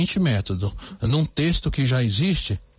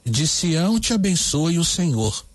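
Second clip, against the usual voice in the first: slow, deliberate lyric reading; slow, careful reading of the new lyric. Shown as a demonstration. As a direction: read the verses out for dictation. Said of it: "Anote aí então como ficou essa letra".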